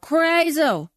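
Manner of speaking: Korizo said high like a sharp shriek; Greek cry word. Shown as a demonstration. Preacher voicing the father's Greek cry, Korizo shrieked high. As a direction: say Korizo as a high crow's caw. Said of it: "in the original Greek".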